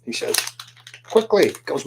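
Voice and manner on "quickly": mock yell. Captain calling down to his mates, mock yell. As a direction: call an order down below deck. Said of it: "So Captain Dave yells down below".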